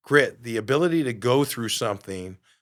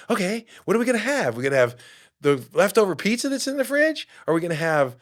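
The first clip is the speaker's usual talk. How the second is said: imitating the nagging brain; 8 semitones higher, 4 dB louder than usual. Brain's voice nagging about food.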